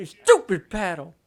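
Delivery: slow, stressed angry outburst; mock pissed. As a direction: spit it out like a sore loser. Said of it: "So pissed".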